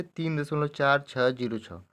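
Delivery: slow, separated "चार छः जीरो छः"; deliberate teacher's demo, each of "चार छः जीरो छः" apart; digit by digit. Shown as a demonstration. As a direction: read out "चार छः जीरो छः" one digit at a time. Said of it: "तो पढ़ेंगे कैसे?".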